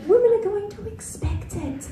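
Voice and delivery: put-on high, slow, earnest little girl voice; hammed-up high child pleading; desperate little girl. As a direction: lecture her baby brother with mock desperation. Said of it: "the desperation in her voice".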